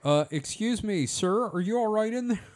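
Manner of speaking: polite attendant. Acted. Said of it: "ask me if I'm all right in here".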